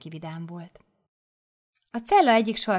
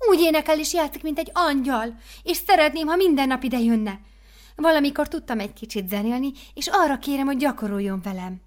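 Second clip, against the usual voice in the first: higher, louder gushing praise; enthusing mother superior; 6 semitones higher, 6 dB louder than usual. Acted. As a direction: gush over the new girl.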